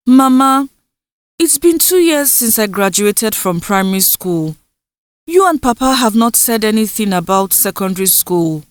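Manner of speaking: lightly voiced young girl, pleading; a hint of a girl begging her mother; voiced daughter Indusa.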